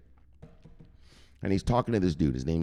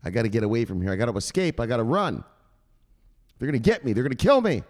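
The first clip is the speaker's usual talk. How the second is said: scared Zelensky; 2 semitones higher than usual. Retold or imitated. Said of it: "And Zelensky's like".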